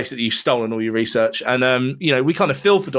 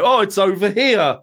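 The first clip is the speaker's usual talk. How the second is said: higher, hammy discovery; mock searcher; 6 semitones higher than usual. Host mimics the film's cast finding the cat, higher and hammy. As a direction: point it out like a bad actor. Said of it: "and they go".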